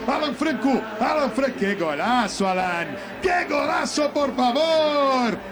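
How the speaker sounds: shouting praise for scorer; excited celebration. Acted. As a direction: hype the header.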